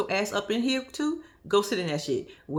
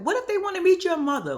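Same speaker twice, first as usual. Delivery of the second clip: higher, louder whiny mom voice; mimicking Donna; 10 semitones higher, 6 dB louder than usual. Vlogger mimicking Donna begging to meet the officer, higher whiny voice. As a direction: whine it like a clingy mother. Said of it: "She was like".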